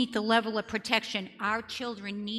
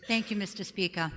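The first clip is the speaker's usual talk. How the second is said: thick Boston accent, "Speaker" said as "Speakah" with no r; Boston accent, drop the r at the end of "Speaker". Shown as a demonstration. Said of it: "my Boston accent, so here it is".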